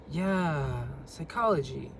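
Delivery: flat, uninterested "psychology"; bored tone. Shown as a demonstration. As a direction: say it like you're bored. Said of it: "if I was to say it like that".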